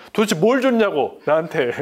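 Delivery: loud, indignant demand at God; defiant outburst. Retold or imitated. Young man protesting to God, loud and resentful. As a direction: fling the question up at God, resentful.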